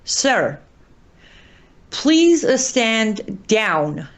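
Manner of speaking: slow, emphatic appeal with heavy pauses; measured, insistent plea to a leader; earnest plea. Real, not acted. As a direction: plead slowly and deliberately, phrase by phrase. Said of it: "this is a plea to President Trump".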